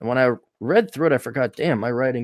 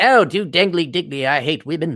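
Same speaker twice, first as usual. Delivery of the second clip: fake Australian accent, pitched up; 5 semitones higher, 5 dB louder than usual. Mocking how a podcaster would talk to win over girls, in a mock Australian accent. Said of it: "he does it in an Australian accent".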